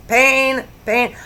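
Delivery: high exclaimed "pain"; retold pain. Vlogger retelling soap in her eye, high pained exclamation. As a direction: pitch each word up as a re-enacted cry of pain.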